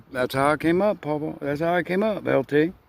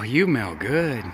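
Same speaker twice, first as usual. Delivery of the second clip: soft, slow and fond; tender; 2 semitones lower, 3 dB quieter, slower than usual. Real, not acted. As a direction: savor it gently. Sniffing grandchild after bath.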